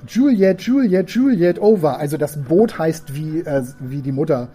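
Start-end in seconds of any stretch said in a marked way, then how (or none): 0.1-2.0 father calling the boat's name into the radio. Acted. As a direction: call out across the airwaves.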